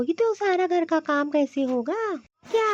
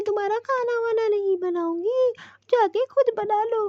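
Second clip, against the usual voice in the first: acted crying. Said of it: "क्यों रो रही है?".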